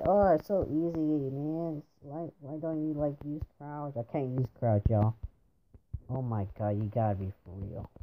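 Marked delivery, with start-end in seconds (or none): 0.0-3.9 lightly mocking, raised pitch; imitated know-it-all viewer. Player imitating viewers who find the game easy, lightly mocking. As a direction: mimic a viewer's dismissive advice. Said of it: "some of you guys will say".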